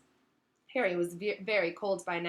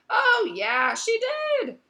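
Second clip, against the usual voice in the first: awkward agreement; 10 dB louder, much slower than usual. Acted. Ron unconvincing agreement.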